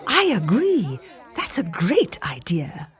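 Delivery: sly whispered agreement; a touch of mischief; mischievous. Acted. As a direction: agree with a knowing wink. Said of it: "as much mischief in her voice".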